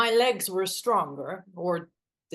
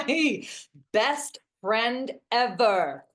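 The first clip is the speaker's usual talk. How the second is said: drawn-out praise; 3 semitones higher, much slower than usual. Acted. Thanking friend for snacks.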